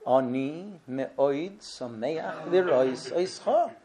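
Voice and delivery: slow Ashkenazic Hebrew with oi vowels; Ashkenazic Hebrew accent. Retold or imitated. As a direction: imitate Rav Kook's Ashkenazic Hebrew, slowly. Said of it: "he would talk like this".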